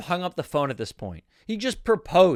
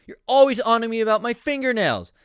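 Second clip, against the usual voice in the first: higher, louder overacted protest; mock indignant complaint; 5 semitones higher, 5 dB louder than usual. Shelly argues with Joe about her nails, mock indignant. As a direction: complain loudly, slightly hammed up. Acted quarrel from the script.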